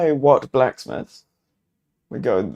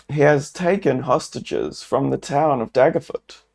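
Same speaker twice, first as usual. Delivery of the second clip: louder, quicker earnest apology; apologetic adventurer; 3 semitones higher, 5 dB louder than usual. Acted. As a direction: explain yourself respectfully. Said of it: "You bow your head".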